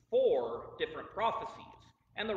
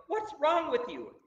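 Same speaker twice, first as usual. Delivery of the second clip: raised, higher, drawn-out exasperated yell; mock yell at a car; 9 semitones higher, 5 dB louder than usual. Preacher playing a driver arguing with a broken-down car, mock yelling. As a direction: pretend to yell, pitched up and stretched out. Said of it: "if I started yelling at the car".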